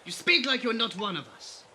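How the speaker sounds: a creature scoffing at the leader; Baron's voice. Acted. Baron coldly dismissing the leader.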